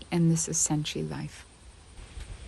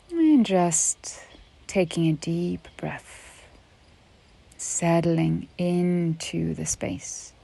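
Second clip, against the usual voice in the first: unhurried yoga nidra guidance with long pauses; measured, spacious relaxation-teacher delivery; guided meditation. Real, not acted. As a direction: guide a listener gently into rest, leaving space between phrases.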